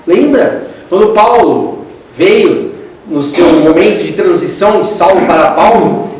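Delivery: ordinary delivery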